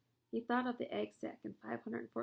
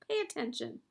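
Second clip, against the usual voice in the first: higher, louder urgent yell; screaming; 6 semitones higher, 5 dB louder than usual. A narrator's reading. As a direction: yell at him to wake up. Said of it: "screamed Wilbur".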